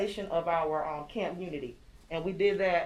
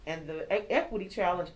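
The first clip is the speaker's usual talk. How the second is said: talking through a face mask; words muffled behind a mask. Real, not acted. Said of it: "I can't hardly talk with this mask on".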